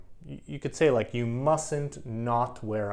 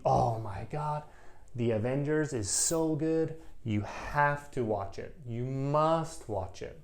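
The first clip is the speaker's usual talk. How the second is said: excited recommendation; 3 semitones higher than usual. Retold or imitated. Student gushing about a movie.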